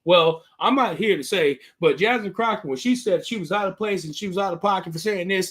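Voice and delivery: imitating someone dodging a question; evasive. Host retelling a man tap dancing around questions, evasive. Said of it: "tap dancing around the question".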